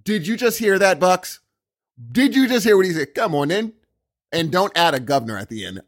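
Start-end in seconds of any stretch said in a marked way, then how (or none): 0.0-3.7 excited quote. Acted. Delighted American telling Bucks, excited. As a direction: marvel at it to a pal. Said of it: "I'm just gonna be like".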